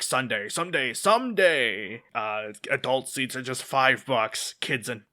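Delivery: hyped announcer voice, lightly done; monster truck ad. Retold or imitated. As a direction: imitate a monster truck radio ad. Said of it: "the Monster Truck commercial where he goes".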